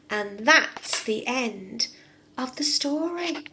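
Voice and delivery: put-on lively read-aloud for small children; storybook reading. A narrator's reading. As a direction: tell it like a bedtime story for kids. Reads fairy tale to children.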